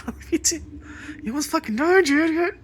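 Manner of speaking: high, loud scolding; exasperated yelling. Retold or imitated. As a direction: shout at the cat in loving frustration.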